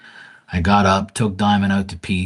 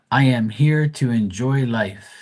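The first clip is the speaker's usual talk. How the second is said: reading the card aloud, measured; slow card reading; 4 semitones higher, 4 dB louder, slower than usual. Retold or imitated. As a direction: read slowly and deliberately. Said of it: "And it says".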